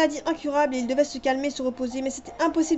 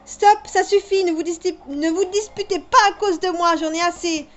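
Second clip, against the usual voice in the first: higher, louder, desperate stop; pleading shout; 3 semitones higher, 6 dB louder than usual. Acted. Daughter yelling to stop father and boy arguing. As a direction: shout to break up the fight.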